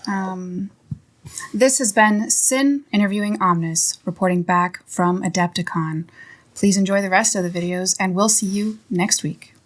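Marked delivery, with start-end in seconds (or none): 1.5-9.5 newscaster voice. Pretend. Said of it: "I don't know how to do a newscaster voice".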